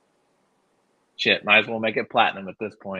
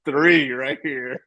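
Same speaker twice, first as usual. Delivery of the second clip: mock customer voice; 6 semitones higher, 4 dB louder, much slower than usual.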